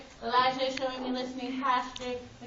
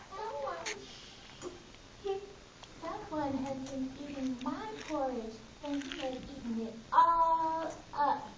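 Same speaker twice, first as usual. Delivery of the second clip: wee little voice; 4 dB quieter than usual. Acted. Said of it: "in his wee little voice".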